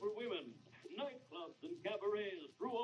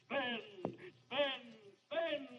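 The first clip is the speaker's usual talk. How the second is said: building louder and higher with each repeat; urging; 5 semitones higher, 4 dB louder, much slower than usual. Acted. Diamond Jim's ghost urging stingy Benny to spend, building chant. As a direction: egg him on harder each time.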